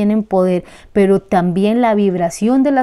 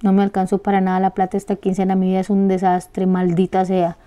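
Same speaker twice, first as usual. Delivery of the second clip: self-pitying lament; 3 semitones lower, 4 dB quieter than usual. Shown as a demonstration. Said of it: "usted dice".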